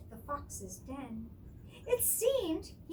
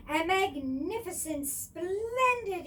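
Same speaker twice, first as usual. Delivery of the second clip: excited cry; 2 semitones higher, 5 dB louder than usual. Acted. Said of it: "he cried".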